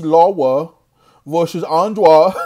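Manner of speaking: LARA and ANDRADE said with W's for R's; mock speech impediment. Mocking the boxer's speech, LARA and ANDRADE lisped with W's. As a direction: lisp LARA and ANDRADE like baby talk. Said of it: "the worst speech impediment".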